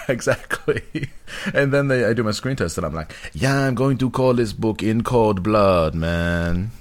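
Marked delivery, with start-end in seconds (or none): 3.3-6.7 laid-back Capote. Retold or imitated. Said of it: "Like, real laid back".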